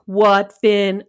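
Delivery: imitating a bored older brother after a sigh; weary, put-upon "what now"; bored sibling humoring his brother; incredibly bored. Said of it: "like, sounding incredibly bored".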